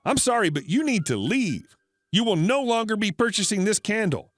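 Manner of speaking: mildly forceful, talking over her. Retold or imitated. Manager talking over a rude customer, mildly forceful. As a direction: lay down the law firmly. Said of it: "now uncharacteristically being forceful and talking over her".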